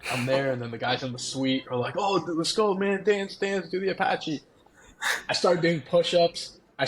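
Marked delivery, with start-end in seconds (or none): 2.0-4.4 mock cheering fans. Guys in suite cheering him on.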